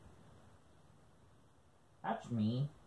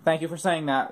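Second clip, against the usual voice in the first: sarcastic. Real, not acted. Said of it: "I mean, that's sarcasm".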